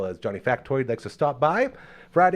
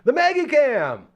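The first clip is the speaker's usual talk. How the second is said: hype announce; 7 dB louder, slower than usual. Acted. Hyping the segment name.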